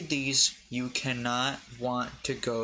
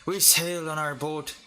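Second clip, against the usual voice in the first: attempted Scottish accent gone Irish; 2 semitones higher than usual. Shown as a demonstration. Reader attempting a review in Scottish, slipping into an Irish accent. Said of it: "Oh, that's Irish".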